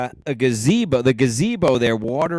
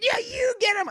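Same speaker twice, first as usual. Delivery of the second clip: mock cheer; 3 dB quieter than usual. Quoting friend egging dogs on.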